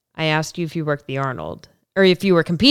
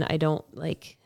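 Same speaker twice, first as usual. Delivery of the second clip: a soft unvoiced aside; quick whispered aside; 9 dB quieter, slower than usual. Real, not acted. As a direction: drop to a whisper for a beat.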